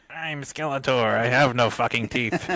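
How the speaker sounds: high nasal villain cackle voice; Skeletor voice. Retold or imitated. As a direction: do a cartoon villain. Imitating the Skeletor toothbrush voice.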